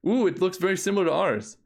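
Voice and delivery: a real little gasp of interest; pleased surprise. Real, not acted. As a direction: react with real delight at the deck. Viewing a shared deck.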